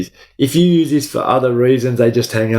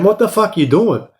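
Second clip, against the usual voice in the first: sharply higher, incredulous yell; retold guard yell; 8 semitones higher than usual. Guard yelling at the inmate through the door, sharply high. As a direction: bark the question through the door.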